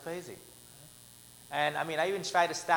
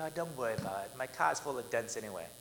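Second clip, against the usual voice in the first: peaceful; 5 semitones lower, 4 dB quieter than usual. Retold or imitated. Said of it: "I was so peaceful".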